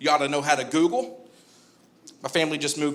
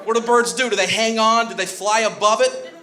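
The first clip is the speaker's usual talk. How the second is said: excited; 5 semitones higher than usual. Acted. Repeating bird question, building up.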